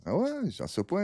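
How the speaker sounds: high, incredulous ah ouais; surprised ah ouais. Retold or imitated. Retelling his chat with a fan, surprised high reply. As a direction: act amazed at his answer. Reacting to the man's threat.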